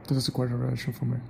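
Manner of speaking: fast line with "realization" shortened to sound like "relation"; quick slurred pronunciation. Shown as a demonstration. Speaker correcting himself after saying no, "realization" slurred to "relation". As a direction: drop the middle syllables of "realization", quickly. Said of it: "Like this".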